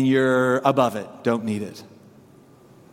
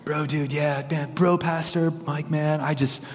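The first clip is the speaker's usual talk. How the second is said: valley voice; 3 dB quieter than usual. Retold or imitated. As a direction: lightly mimic a Valley dude asking a favour. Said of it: "valley voice".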